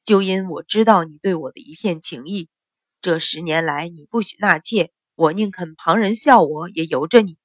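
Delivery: low, weary male voice with a sigh; a tired husband letting out his grievance; mild sighing complaint; sighing reproach. Acted. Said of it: "叹了口气才道".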